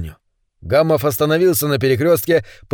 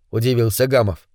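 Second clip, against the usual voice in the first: ordinary delivery, nothing marked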